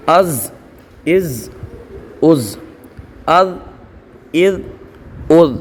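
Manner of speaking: each syllable "अत" ends in a bouncing echoed stop; slow, separate syllables with a rebound on the final consonant; qalqala drill. Shown as a demonstration. Quran teacher drilling students, bouncing echoed qalqala syllables. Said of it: "कलकला के हैं".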